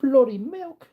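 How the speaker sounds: high, loud mock British "Bloody milk"; British accent. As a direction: relish the "bloody" like a Brit. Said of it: "your British accent".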